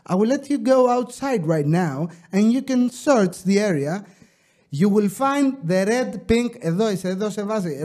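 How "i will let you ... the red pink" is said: put-on British English; British accent. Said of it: "Όταν τα λέω με βρετανική".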